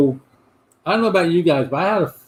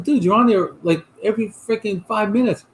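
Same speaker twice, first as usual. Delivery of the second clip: teasing disbelief; 6 semitones higher than usual. Retold or imitated. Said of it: "I said".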